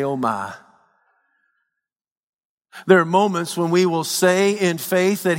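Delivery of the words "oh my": a hushed "oh my" at bad news; dismayed. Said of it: "we say".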